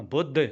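ਬੁੱਧ with a weighty doubled dh; ਬੁੱਧ closed on a heavy dh. Shown as a demonstration. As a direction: lean on the ਧ ending ਬੁੱਧ. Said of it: "ਧੱਦਾ ਭਾਰਾ ਬੋਲਣਾ".

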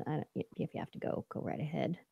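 hushed, quick whisper; whispered aside. Real, not acted. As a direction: mutter it under your breath. Mock dismissive aside.

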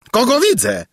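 high cry of astonishment; surprised exclamation. A narrator's reading. King spotting the envoy on horseback, astonished cry. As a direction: exclaim at an unexpected arrival. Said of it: "wykrzyknął król".

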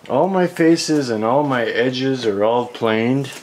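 ordinary delivery

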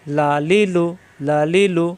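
লা লি লু as three brief syllables; each of লা লি লু kept short; short vowels. Shown as a demonstration. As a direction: chant লা লি লু evenly without stretching. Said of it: "হরকত আসলে উচ্চারণ তাড়াতাড়ি".

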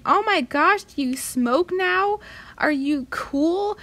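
high excited gushing, mock friend. Friends texting about her smoking, high mock gush. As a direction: squeal it like a shocked friend. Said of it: "text messages saying".

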